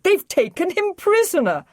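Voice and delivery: high, loud panicked plea; distraught. Acted. Liz pleading with the Brigadier over the doctor, high distraught cry. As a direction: still crying out, pitched high. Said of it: "she cried".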